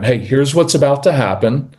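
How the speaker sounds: even, grounded, respectful tone; matter-of-fact. Shown as a demonstration. Coach showing parents how to address a strong-willed child, matter-of-fact. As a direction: state it evenly to settle the child. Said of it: "even matter-of-fact tone".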